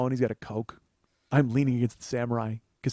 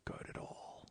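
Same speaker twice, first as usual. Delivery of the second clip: whispered dread; inner whisper; 5 semitones lower, 17 dB quieter, slower than usual. Retold or imitated. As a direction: whisper it like a thought. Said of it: "in my head".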